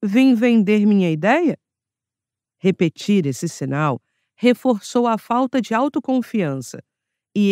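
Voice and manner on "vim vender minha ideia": "Vim vender minha ideia?" ending on an unsure upward lift; rising question tune. Retold or imitated. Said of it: "usou a entonação interrogativa outra vez".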